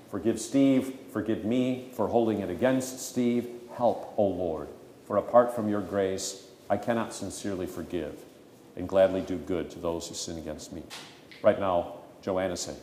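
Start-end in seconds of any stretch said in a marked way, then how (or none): 0.1-10.8 low, softened plea to God; humble prayer. Acted. Struggler asks God for help to forgive, humbly praying. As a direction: model a penitent prayer, voice sinking softer.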